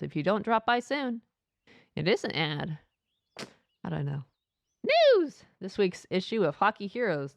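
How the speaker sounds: lively, lilting newsletter read; shop announcement read. Acted. Shop tells customers the news, announcement voice. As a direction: read it out like a friendly shop notice.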